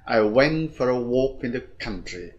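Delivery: sentence run through in one go; quick reading. Shown as a demonstration. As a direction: read it briskly without pausing. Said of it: "Ta đọc nhanh".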